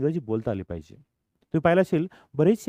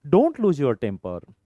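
slow model phrase; 4 dB louder, much slower than usual. Shown as a demonstration. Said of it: "teacher models slow phrase".

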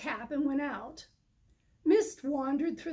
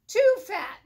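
higher, louder dry quip; loud goat remark; 6 semitones higher, 9 dB louder than usual. Acted.

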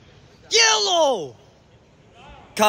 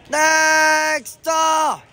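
higher, loud burst of disbelief; exasperated shout; 8 semitones higher, 4 dB louder than usual. Real, not acted. Commentator reacting to another goal, exasperated shout. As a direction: bark it out in exasperation.

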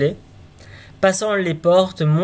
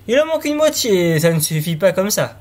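crying out; 3 semitones higher than usual. Acted. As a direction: shout up the chimney, half joking. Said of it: "cria-t-il". (crier, beaucoup plus aigu)

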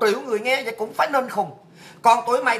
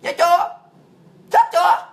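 taunting shout; 6 semitones higher, 4 dB louder than usual. Real, not acted. Taunting her online critics.

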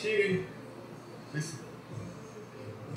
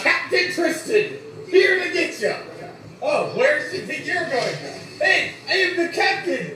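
hammed-up Croatian accent, louder; mock Croatian accent; 3 semitones higher, 4 dB louder than usual. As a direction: play a drunk Croatian captain barging in. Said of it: "I can do a Croatian accent".

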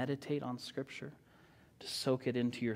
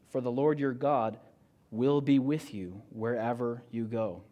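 scripture reading. Acted. Preacher reads God's charge to Joshua aloud, solemn and measured. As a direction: read it out like a proclamation to the church.

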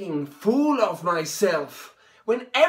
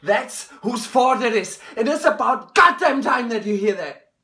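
angry; 3 semitones higher than usual. Acted. Son accusing his father.

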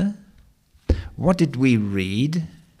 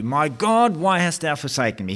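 cry of Jesus; 5 semitones higher than usual. Retold or imitated. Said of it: "He cried out".

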